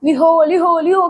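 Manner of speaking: a rustic cry, "लिहो" stretched to drive off animals; village shooing call. Shown as a demonstration. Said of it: "जब गांव में आता था ऐसे आवाज निकालते".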